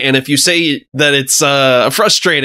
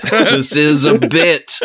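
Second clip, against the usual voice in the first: slow, emphatic; slower than usual. Shown as a demonstration.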